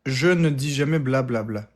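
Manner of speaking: mock Russian-accented French. Shown as a demonstration. Showing what the accent is, mock Russian delivery. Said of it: "le, l'accent".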